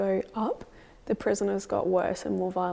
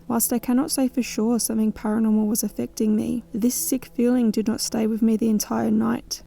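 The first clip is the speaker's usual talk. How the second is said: steady, measured documentary narration; voice-over narration; 5 dB louder than usual. A narrator's reading. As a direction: narrate the night's events evenly. Voice-over narration between scenes.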